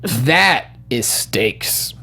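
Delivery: slow whispered awe. Real, not acted. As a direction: breathe it out slowly. Awed remark about trailer.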